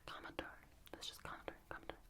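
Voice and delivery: calming it down. Real, not acted. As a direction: bring the whisper right down to soothe. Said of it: "so I'll calm it down a little bit".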